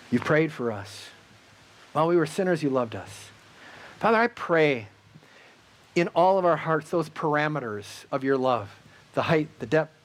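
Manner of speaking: fervent closing prayer to the Father; heartfelt pastoral prayer; earnest prayer. Acted. Closing prayer over music.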